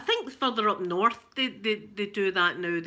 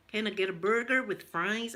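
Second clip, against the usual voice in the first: American accent, heavily Glaswegian; half-successful American accent; American accent attempt. Shown as a demonstration. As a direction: try American but let Glaswegian show through. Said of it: "It's still dead Glaswegian".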